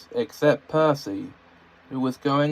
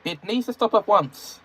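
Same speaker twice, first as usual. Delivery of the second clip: cross; 8 semitones higher than usual. A narrator's reading. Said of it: "Edward told him crossly".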